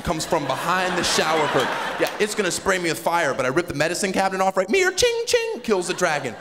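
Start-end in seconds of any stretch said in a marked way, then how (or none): 4.7-5.2 sword clang. Retold or imitated. Sword sound effect.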